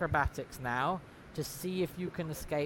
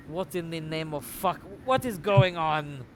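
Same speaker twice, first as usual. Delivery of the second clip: startled outburst; 4 dB louder than usual. Acted. Startled NPC's outburst acted.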